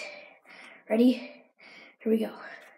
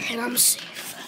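whispered relief, softer; hushed whisper; 5 dB quieter, slower than usual. Real, not acted. Sneaking in past parents, soft whisper. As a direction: breathe it out without voice.

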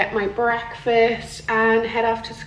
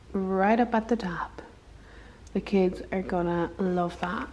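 whispering; 7 dB quieter than usual. Real, not acted. Classroom, quiet morning.

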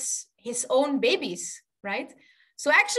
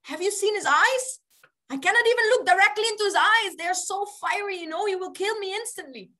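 high-pitched, hammed-up dread; mock terror; 6 semitones higher, faster than usual. Pujari afraid of the deity's fiery eyes, mock terror. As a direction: protest in comic fright, high.

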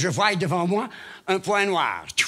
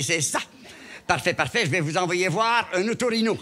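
ordinary talk, nothing marked

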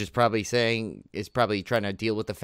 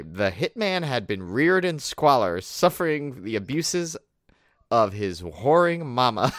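relished reread; slower than usual. Shown as a demonstration. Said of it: "can we read that line again?".

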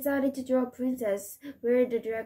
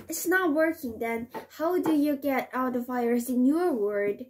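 worried shout. Acted. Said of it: "The elf was worried and shouted".

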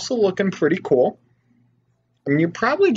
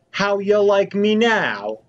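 gloating taunt; 8 semitones higher, 4 dB louder, slower than usual. Real, not acted. Gloating after hitting villager.

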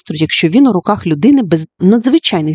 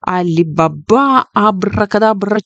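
funny magic words; 3 semitones higher, slower than usual. Acted. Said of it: "промовляла якісь смішні фрази".

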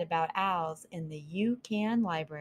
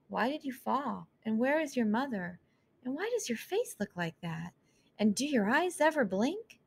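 higher, lightly voiced mouse girl; curious little mouse; 5 semitones higher than usual. Mouse Cleopatra quizzing the fallen owl, lightly higher voice. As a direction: poke at it with questions.

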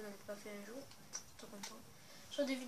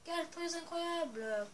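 high, loud, slow commentator shout; wrestling commentator; 7 semitones higher, 5 dB louder, slower than usual. Pretend. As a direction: hype the move like a TV commentator. Commentating own gameplay. (commentateur de catch enthousiaste)

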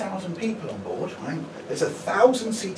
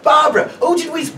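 gushing couple; 10 semitones higher, 9 dB louder than usual. Retold or imitated. Couple gushing about comedy.

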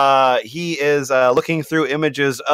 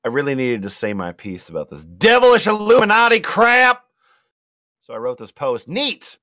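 Latina mom voice. Acted. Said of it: "more Latina, uh, Republican mom".

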